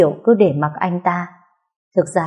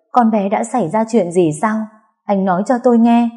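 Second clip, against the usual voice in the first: higher, pressing questions; anxious questioning; 4 semitones higher than usual. Acted. Sister urgently asking Vũ what happened, anxious and higher. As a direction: demand to be told, worried.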